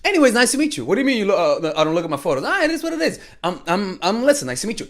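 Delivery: mock breezy date. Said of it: "you say".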